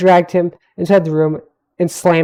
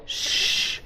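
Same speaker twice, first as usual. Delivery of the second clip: unvoiced shushing hiss; hush; 9 dB quieter than usual. A narrator's reading. Gemini hushes the yelling boy, unvoiced shush. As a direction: shush him to silence.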